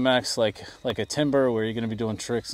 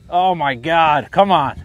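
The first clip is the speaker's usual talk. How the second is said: tense pleading; 3 semitones higher, 8 dB louder, slower than usual. Real, not acted. Plane struggling to land.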